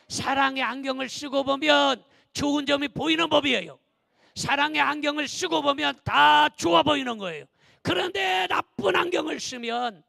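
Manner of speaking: loud, emphatic sermon delivery; forceful preaching. Real, not acted. Pastor urging the congregation to wear glasses of love, forceful preaching. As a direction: preach it out to the whole church.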